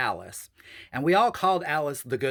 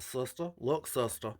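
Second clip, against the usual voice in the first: imitating Alice; 2 semitones higher than usual. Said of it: "She used to talk like that".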